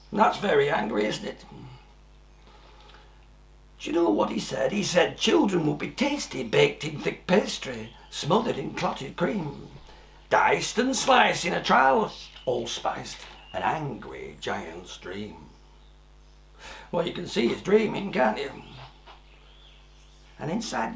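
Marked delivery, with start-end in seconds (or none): 4.7-15.4 put-on lively rhyming read-aloud for children; a storyteller sharing a rhyme with small children; storybook reading. A narrator's reading. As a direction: read the verse like a bedtime story. Reads rhyming verse of book.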